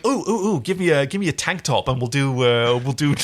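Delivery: bubbly imitation of an actress with an idea; mild giddy pitch; eager retold pitch. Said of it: "She went".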